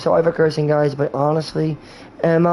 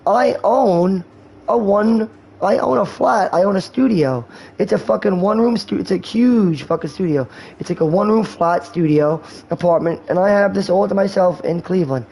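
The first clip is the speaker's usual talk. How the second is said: raised-pitch bragging quote; mock boasting; 4 semitones higher than usual. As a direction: imitate a friend proudly showing off. Acts out friend boasting about flat.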